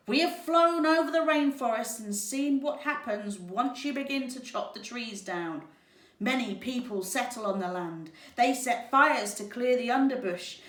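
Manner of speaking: high, loud squawk; squawking toucan. Acted. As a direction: squawk it like a bird. Toucan keeps speaking.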